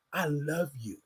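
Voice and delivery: barely above a breath, tender and low; soft self-affirmation. Shown as a demonstration. Host guiding listeners to whisper love to themselves, hushed. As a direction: say it softly to yourself like a private promise.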